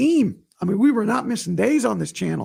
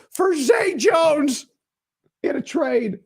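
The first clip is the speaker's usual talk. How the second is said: laughing disbelief; 7 semitones higher, much slower than usual. Real, not acted.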